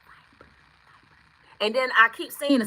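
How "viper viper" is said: breathy near-silent whisper of the word; imitating spirit whisper. Reader repeating the spirit's whisper, hushed. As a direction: hush it like a spirit calling. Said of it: "whisper three times".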